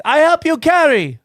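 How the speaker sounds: put-on high, broken-English Asian accent; imitated Asian accent. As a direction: mimic the shop lady's Asian accent. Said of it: "she literally talks like this".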